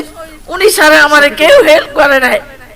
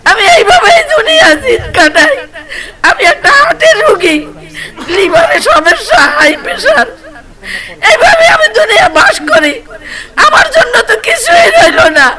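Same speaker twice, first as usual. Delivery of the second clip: hit hard crying out; 8 semitones higher than usual. Real, not acted. Sobbing about her illnesses.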